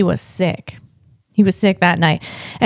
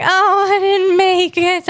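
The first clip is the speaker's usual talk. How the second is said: higher, slow, giggly mock disappointment; laughing mock dismay; 8 semitones higher, slower than usual. Date couple at the hoop, lightly mocked laughing. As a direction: imitate a flirty date missing the shot. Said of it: "they're laughing like".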